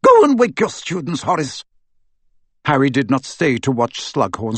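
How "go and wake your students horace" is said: higher, crisp commanding witch; a brisk headmistress giving orders; stern professor. A narrator's reading. A stern witch instructing a fellow teacher, crisp. McGonagall voiced.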